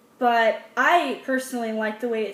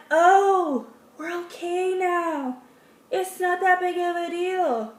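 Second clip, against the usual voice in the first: mock relieved; 4 semitones higher, slower than usual. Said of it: "it's like".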